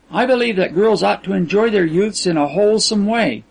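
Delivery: put-on earnest girlish protest, lilting; innocent, girlish Kisman. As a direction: insist on your innocence, lightly girlish. Kisman insists she is innocent.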